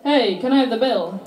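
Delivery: just ask normally; plain call out. Retold or imitated. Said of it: "Why didn't he just say".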